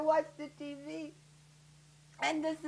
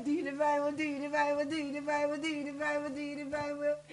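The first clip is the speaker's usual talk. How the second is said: murmured prayer; 5 dB quieter, faster than usual. Acted. Woman praying herself to sleep, murmured prayer. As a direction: repeat it evenly like a fading prayer. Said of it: "and I pray".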